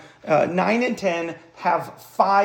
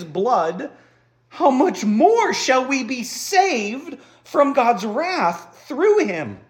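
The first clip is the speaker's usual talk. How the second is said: scripture reading. Acted. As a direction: read the apostle's words as a preacher, savoring each phrase. Continues reading the passage.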